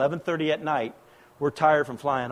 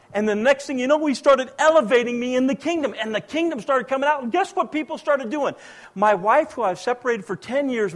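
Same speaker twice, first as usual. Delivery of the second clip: preached testimony; 7 semitones higher, 4 dB louder than usual. Real, not acted. Testimony preached with rising energy.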